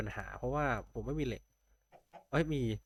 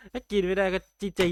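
mock despair; 7 semitones higher, 8 dB louder than usual. Real, not acted. Game gone wrong, joking.

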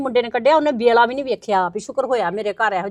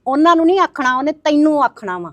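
raised, higher accusing voice; heated retort; 4 semitones higher, 5 dB louder than usual. Acted. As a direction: fire it back at her, higher and louder. Gossiping women quarrel.

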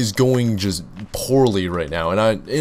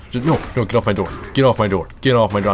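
yelling at a zombie; faster than usual. Real, not acted. Fighting off a feral.

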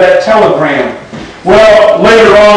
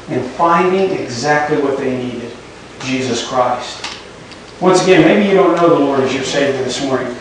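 hushed altar call; 5 semitones lower, 7 dB quieter than usual. Acted. Quiet altar call close.

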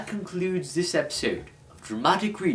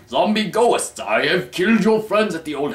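calling out; 7 semitones higher, 6 dB louder than usual. Acted. John addresses the zombie ghosts.

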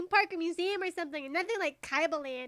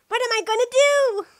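high, loud dismay; acted panic; 5 semitones higher, 8 dB louder than usual. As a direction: wail it helplessly. Retake of acted panicked line.

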